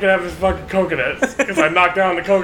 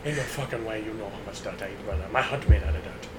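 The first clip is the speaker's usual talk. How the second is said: put-on voice; 6 dB quieter than usual. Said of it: "whatever that voice you were doing earlier".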